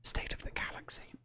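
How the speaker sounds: put-on whispered posh public schoolboy accent. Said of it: "in my best public schoolboy accent".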